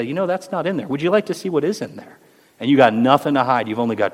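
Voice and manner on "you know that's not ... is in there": very kindly. Retold or imitated. Correcting a critic of the Old Testament, very kindly. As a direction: set them right gently, then invite. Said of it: "very kindly say".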